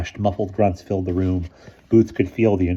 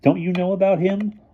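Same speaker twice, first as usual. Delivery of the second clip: laughing; 12 semitones higher, 3 dB louder than usual. A narrator's reading. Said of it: "Boots laughed".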